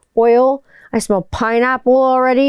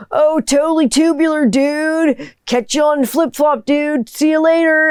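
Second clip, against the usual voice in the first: higher surfer-dude turtle voice, laid-back; imitating dad's goofy cartoon turtle; Michelangelo impression; 6 semitones higher than usual. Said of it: "And he'd be like".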